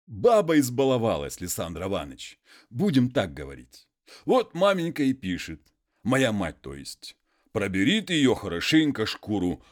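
a hint of a humble muzhik pleading; peasant voice.

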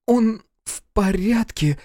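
high-pitched, drawn-out mild surprise; almost surprised drawl. A narrator's reading. Wife answers about their son, almost surprised. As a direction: draw it out, faintly puzzled. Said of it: "почти удивлённо протянула Строганова".

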